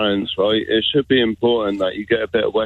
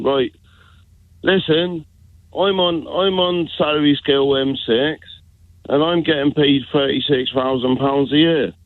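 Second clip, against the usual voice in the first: put-on Dorset accent. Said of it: "if I was in Dorset".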